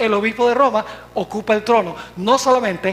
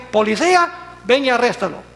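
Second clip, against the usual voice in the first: lightly acted command, raised pitch; church giving orders. Church ordering police to arrest dissenters, mildly commanding. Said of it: "la iglesia decía".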